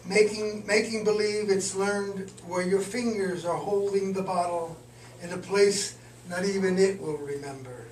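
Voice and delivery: measured, deliberate poetry recital; poem reading. Acted. Poet reads a poem just finished today, measured recital. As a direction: read it line by line, pausing between phrases. Resumes poem after aside.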